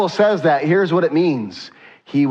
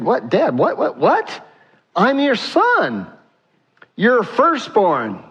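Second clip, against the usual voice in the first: high, incredulous son; bewildered son; 7 semitones higher, slower than usual. Acted. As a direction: pitch it up, baffled, then stretch the words slowly. Bewildered son answers his father.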